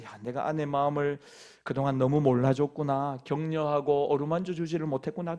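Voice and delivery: soft, quiet, understanding; gentle realization. Retold or imitated. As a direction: realize softly that she is hurt. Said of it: "상한 아내의 마음을 보면서". (조용하고 부드럽게 깨닫는 남편)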